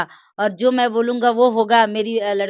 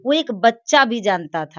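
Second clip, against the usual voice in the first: raised, louder voice pressing the point; heated insistence; 4 dB louder than usual. Real, not acted. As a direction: argue back firmly and loudly. Heated disagreement with interviewer. (ऊँची आवाज़ में ज़ोर देकर बहस)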